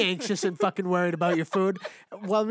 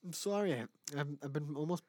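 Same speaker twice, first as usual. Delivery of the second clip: words through a yawn; 3 semitones lower, 10 dB quieter than usual. Real, not acted. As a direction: yawn while speaking. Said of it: "stop yawning".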